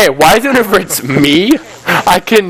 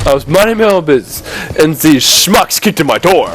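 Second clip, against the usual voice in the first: mock tall tale. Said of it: "what happened when you were".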